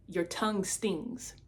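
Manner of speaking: quiet and slow, a soft inner prompting; gentle inner voice. Retold or imitated. Recalling the Holy Spirit's voice at the coffee bar, said quietly and slowly. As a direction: let it come softly and slowly, like a still small voice. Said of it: "I felt the Holy Spirit saying".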